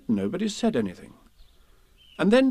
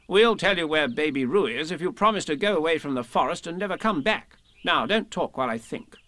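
brisk, instructing Rabbit voice, a bit higher; lightly voiced bossy Rabbit; 5 semitones higher than usual. Rabbit explains the Aha trick to Pooh, lightly bossy. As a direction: explain the plan with a touch of impatience.

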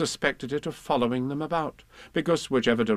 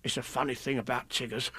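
hushed Tigger voice, much softer; whispered; 8 dB quieter than usual. Acted. Tigger whispers to Roo, hushed and soft. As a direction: confide it under his breath. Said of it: "whispered Tigger to Roo".

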